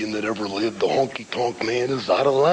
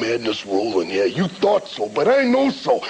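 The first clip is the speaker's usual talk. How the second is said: Macho Man rant. Retold or imitated. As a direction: ramble like a hyped-up wrestler. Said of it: "Macho Man's greatest rant of all time".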